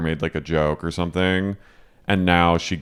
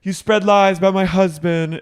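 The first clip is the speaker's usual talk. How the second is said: mock accusation; 11 semitones higher, 4 dB louder than usual. Acted quarrel, Angie accusing Meredith.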